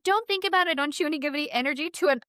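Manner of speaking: high, brisk advice; telling her to let it go; a light take on the medium; quoting the psychic. Retold or imitated. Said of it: "She's like".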